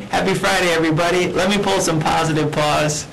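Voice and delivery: cheerful do-over greeting. Shown as a demonstration. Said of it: "Let me try that again".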